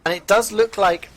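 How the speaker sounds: rising hype as the fights break out; live play-by-play. Acted. Caster hypes the Bureau push to viewers, excited play-by-play.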